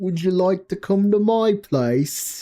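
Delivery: put-on British accent, high-pitched. Voicing a character inviting someone over, put-on British accent. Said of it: "That certainly is an attempt at a British accent".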